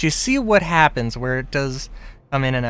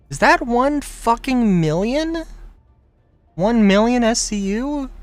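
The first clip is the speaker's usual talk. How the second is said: surprised; 8 semitones higher, 4 dB louder than usual. Real, not acted. Surprised at the price.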